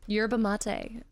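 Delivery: Yerba mate as YER-buh MAH-tay; fancy pronunciation. Shown as a demonstration. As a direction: give mate a fancy "ay" ending. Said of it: "ten times fancier saying it like that".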